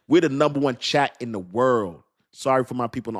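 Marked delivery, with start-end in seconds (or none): 0.1-2.0 proud announcement landing on "world"; emphatic correction. Real, not acted. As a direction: stress on "world". Repeats the correction after laughing.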